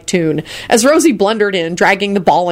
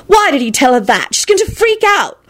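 high, rising outrage; high-pitched exasperated cry; screeched dismay; 10 semitones higher than usual. A narrator's reading. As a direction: protest in mounting alarm. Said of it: "Elizabeth screeched".

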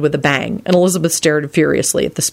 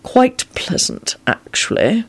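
puzzled; 7 semitones higher, slower than usual. A narrator's reading. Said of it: "with a puzzled air".

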